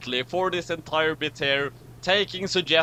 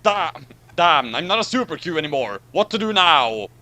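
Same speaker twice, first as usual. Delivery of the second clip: panicked outburst; 5 dB louder than usual. Acted. Picard panics at losing powers.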